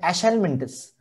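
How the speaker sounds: एशेलमिंथस said with ASH and no H, esh-el-min-thus; एशेलमिंथस as one word, with the H dropped; pronunciation demo. Shown as a demonstration. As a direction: blend एश into एशेलमिंथस. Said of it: "इसका pronunciation है".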